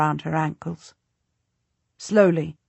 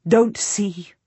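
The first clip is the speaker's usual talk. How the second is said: whispered plea. Acted. Whispered repeat.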